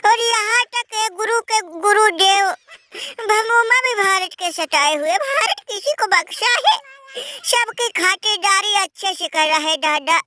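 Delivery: hammed-up sobbing complaint, dragging the words; mock wailing lament. Losing team fan wails to his brother, hammed-up sobbing. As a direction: wail like a beaten team begging for pity.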